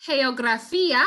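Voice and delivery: "geografía" with a breathy h for the g: heografía; soft G. Shown as a demonstration. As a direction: start "geografía" with a soft h sound. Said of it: "with the soft G".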